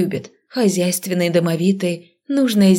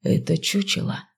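softer hissed retort; hissing; 5 dB quieter than usual. Acted. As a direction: hiss it back at her. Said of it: "также прошипел он".

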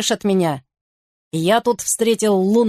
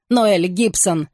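plain reading voice

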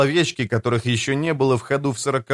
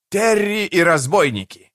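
booming announcer; 5 semitones higher than usual. A narrator's reading. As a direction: boom out the show title. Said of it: "ведущий громогласно объявил".

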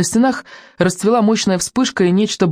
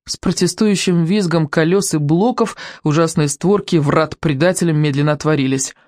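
ordinary delivery

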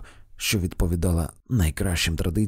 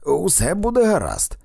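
higher, louder reassuring call; shouting; 8 semitones higher, 5 dB louder than usual. A narrator's reading. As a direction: call out across the garden. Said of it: "крикнув він нам".

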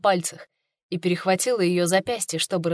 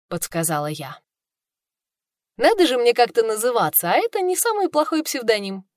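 plain reading voice

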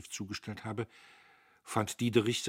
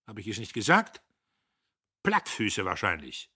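grimmig feixend; 3 semitones higher, 9 dB louder than usual. A narrator's reading. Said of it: "Er feixte grimmig".

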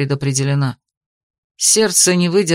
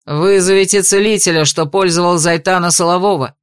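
loud command; 2 semitones lower, 3 dB louder than usual. Acted. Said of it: "громко приказал".

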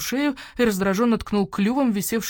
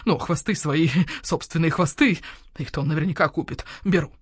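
owl shopkeeper voice. Acted. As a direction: voice the grumpy owl merchant. Owl bargaining.

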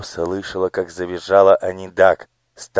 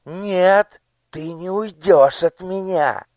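hissed threat; 12 semitones higher, slower than usual. Acted. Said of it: "прошипела Анидак".

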